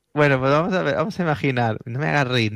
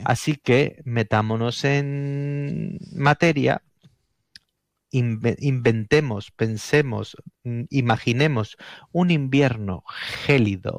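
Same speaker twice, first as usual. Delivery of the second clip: slow, deliberate radio storyteller; measured, atmospheric scene setting; suspense story narration; 2 semitones lower, much slower than usual. Acted. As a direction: draw listeners in with long dramatic pauses.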